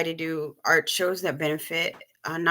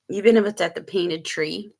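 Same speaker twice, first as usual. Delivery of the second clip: talking around ice in the mouth; words round a mouthful of ice; mouth full. Real, not acted. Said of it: "I'm sorry, I got ice in my mouth".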